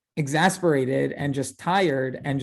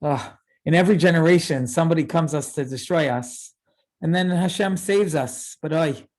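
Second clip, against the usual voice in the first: gloomy sigh; 3 dB louder than usual. Shown as a demonstration. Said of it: "I could imagine this said two ways".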